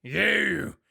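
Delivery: single them out loudly; loud accusation. Acted. Dragonborn captain picks out a suspect, loudly accusing.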